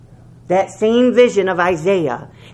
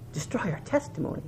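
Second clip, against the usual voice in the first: Destroy our testimony repeated softly, quieter; soft echo; 12 dB quieter, faster than usual. Shown as a demonstration. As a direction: let Destroy our testimony drop to a grave hush.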